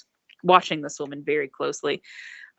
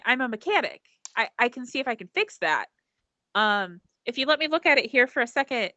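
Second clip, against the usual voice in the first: high, eager helpful voice; brightly reassuring, talking fast; eager mechanic woman; 5 semitones higher than usual. Acted.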